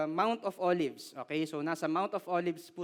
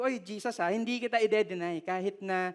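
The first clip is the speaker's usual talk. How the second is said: emphatic Peter. Retold or imitated. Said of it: "with emphasis".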